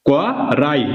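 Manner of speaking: "ক রাই" with ই pulled onto রা; drawn-out reading. Shown as a demonstration. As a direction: say "ক", pause, then a joined "রাই". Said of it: "রয়ের সঙ্গে টানতে হবে".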